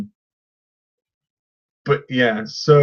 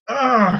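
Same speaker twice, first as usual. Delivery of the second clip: exasperated groan; 5 semitones higher than usual. Acted. Exasperated by the actress.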